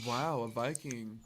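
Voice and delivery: slow, softly spoken mock awe; understated swooning, played for a joke; subtle admiration. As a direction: imitate a girl quietly marvelling, drawn out. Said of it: "Some girls are just subtle about it".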